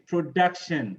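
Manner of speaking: Production with the weight on "duc"; proDUCtion, clearly stressed. Shown as a demonstration. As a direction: lean on the second syllable of Production. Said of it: "So the same for all of these".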